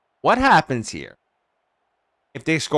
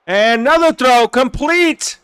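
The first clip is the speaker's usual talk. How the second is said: higher-pitched call of the catch; excited play-by-play; 7 semitones higher, 5 dB louder than usual. Real, not acted. Streamer calling another completed throw, excited play-by-play. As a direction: lift the voice on the completion.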